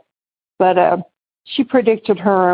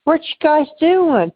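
higher, eager question; lightly voiced curious girl; curious friend; 7 semitones higher than usual. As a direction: ask brightly what they're up to. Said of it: "She's like".

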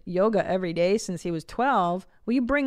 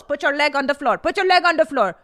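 higher, louder barked orders; mock yelling instructor; 6 semitones higher, 6 dB louder than usual. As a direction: scream at the student on the mat. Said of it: "chastising this woman".

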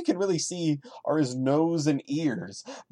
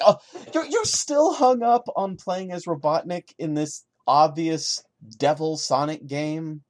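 mocking sarcasm; 2 semitones higher than usual. Real, not acted. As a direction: scoff at how silly it is. Mocking the story's author.

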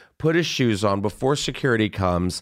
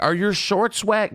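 higher, mock-curious lady voice; lightly voiced nosy woman; imitating the lady; 9 semitones higher than usual. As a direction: ask it like the nosy blonde. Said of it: "and she's like".

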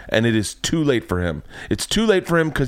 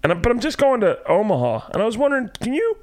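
higher, sheepish ask to a doctor; awkward patient voice; 10 semitones higher than usual. Retold or imitated. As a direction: trail up into a shy question. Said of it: "tell them".

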